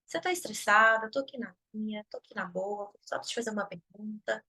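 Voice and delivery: calm loving boundary-setting; calm reply. Retold or imitated. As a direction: answer gently but firmly. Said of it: "Aí eu digo".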